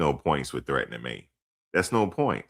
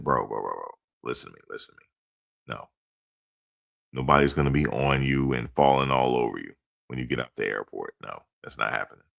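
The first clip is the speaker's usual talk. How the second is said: calm reassuring; 5 semitones lower than usual. Retold or imitated. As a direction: settle them down gently. Retold reassuring talk to young relatives.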